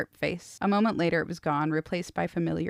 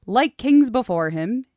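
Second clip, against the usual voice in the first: louder; 5 semitones higher, 9 dB louder than usual. Acted. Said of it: "his voice louder".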